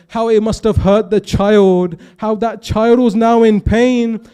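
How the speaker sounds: mourning the martyr before the crowd, a growing lament; impassioned majlis lament. Acted. Majlis lament rising in force.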